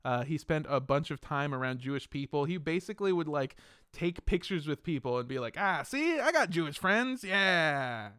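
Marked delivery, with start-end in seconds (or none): 5.6-8.1 mock showing off. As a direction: imitate someone posing proudly for proof. Fred showing off friends in photos.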